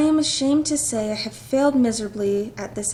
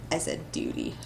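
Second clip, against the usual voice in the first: a much lower, quieter mock captain; mock deep voice; 10 dB quieter than usual. Player mimicking the stern captain in a mock low voice. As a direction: drop way down and parrot him.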